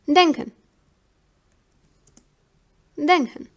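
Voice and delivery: "denken" with nasal ng running into k; nk pronunciation demo. Shown as a demonstration. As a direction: model German "denken" as a teaching example. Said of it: "has the same logic".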